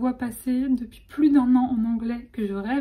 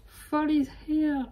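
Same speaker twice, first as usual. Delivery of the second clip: slow English with a French accent; 3 semitones higher, 3 dB quieter, much slower than usual. Shown as a demonstration. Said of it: "avec mon magnifique accent". (anglais avec l'accent français)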